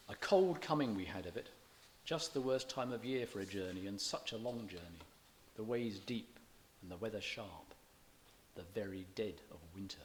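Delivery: dropping to a whisper on the last line; poem reading. Shown as a demonstration. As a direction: read the verse easy, then hush it. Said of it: "reads poem lines, rhythm shown".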